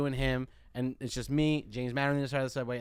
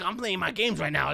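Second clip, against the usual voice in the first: imitated kid protesting, slightly raised pitch; crazy kid's voice; 4 semitones higher than usual. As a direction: put on an agitated oddball gamer. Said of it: "I swear this is his voice".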